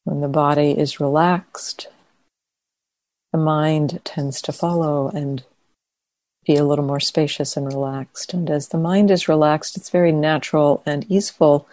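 soft, unhurried meditation guidance; quiet, spacious delivery, phrase by phrase; guided meditation. Acted. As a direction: ease listeners into relaxation with long pauses. Begins leading guided meditation.

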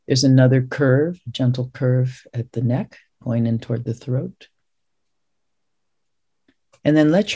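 unhurried meditation guide with long pauses; guided meditation. Real, not acted. Visiting Zen teacher settling students into their posture, guided meditation. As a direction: ease listeners into stillness, phrase by phrase.

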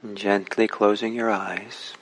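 unhurried instructions with long pauses; calm, spacious meditation-teacher delivery; guided meditation. Real, not acted. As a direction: guide listeners gently, phrase by phrase, leaving space between.

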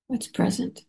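ordinary talk

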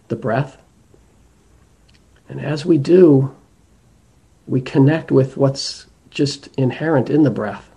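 measured meditation guidance with long pauses; guided meditation. Acted. Teacher guiding listeners to attend to the breath, guided meditation. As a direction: lead them gently inward, leaving space between phrases.

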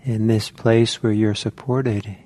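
spacious, measured instructions with room to breathe; guided meditation. Real, not acted. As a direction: calmly guide listeners into settling, phrase by phrase.

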